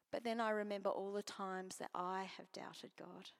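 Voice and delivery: hushed, near-whispered confession, voice close to tears; emotional. Real, not acted. Preacher confessing doubt to congregation, emotional whisper. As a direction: let the feeling catch as you admit it. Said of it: "Sorry, that makes me emotional".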